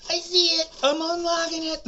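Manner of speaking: high, loud mock woman; excited high voice. The woman shouting to him across the lot, high and excited. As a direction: chirp it out excitedly.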